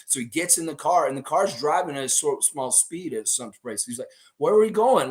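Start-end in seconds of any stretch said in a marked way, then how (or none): 4.4-5.1 alarmed question. Retold or imitated. Raptor alarmed in car.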